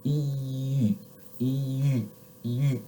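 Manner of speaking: e slid from spread ee to rounded lips; practising French u. Shown as a demonstration. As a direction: glide from ee into rounded u. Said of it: "how you can practice ... you can go".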